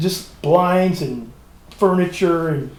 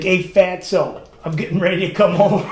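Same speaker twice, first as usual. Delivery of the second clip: teasing painter's greeting; 3 semitones higher than usual. Retold or imitated. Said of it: "That's how he talks to me".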